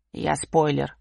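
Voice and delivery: чуть ниже и медленно, с ухмылкой; протяни с глумливой ухмылкой; насмешливый усатый. Acted. (чуть пониженный глумливый голос усатого)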